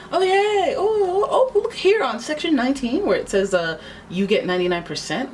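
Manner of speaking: hammed-up giddy contract reader; mock delight. Querent faking glee while reading contract, hammed-up.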